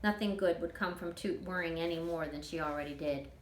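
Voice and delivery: ordinary delivery, nothing marked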